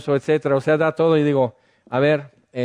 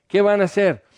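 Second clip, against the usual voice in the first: milder mocking echo; 6 semitones higher, faster than usual. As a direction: stress on "van", a bit higher, amused. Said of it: "y Dios se ríe de ellos".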